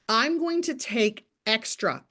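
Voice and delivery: "extra" drawn out slowly and leaned on; stress on extra. Shown as a demonstration. Coach telling distributors her script, stress on "extra". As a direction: lean hard on "extra". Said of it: "in all caps".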